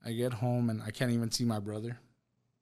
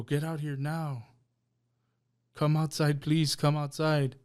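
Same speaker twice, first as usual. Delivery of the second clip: raised, pleading call, higher and louder; urgent plea; 4 semitones higher, 4 dB louder, slower than usual. Retold or imitated. To his aunt at her door, news of his dad: urgent raised plea. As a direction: beg her to come out now, voice straining. Urging aunt after father's death.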